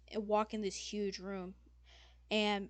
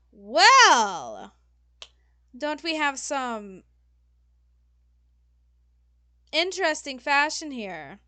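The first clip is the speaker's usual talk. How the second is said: drawn-out, swooping diva greeting; haughty fashion diva, slowly savouring it; theatrical fashion designer; 4 semitones higher, 12 dB louder than usual. Acted. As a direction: size them up with arch, high-pitched disapproval.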